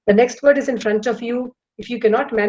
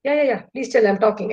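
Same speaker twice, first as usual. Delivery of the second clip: distracted listener. Shown as a demonstration. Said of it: "I'm browsing my phone".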